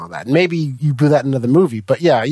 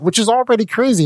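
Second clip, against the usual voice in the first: higher, amazed repeat of the point; pitched up in mock disbelief; incredulous emphasis; 8 semitones higher than usual. Real, not acted. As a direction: throw it up high in disbelief.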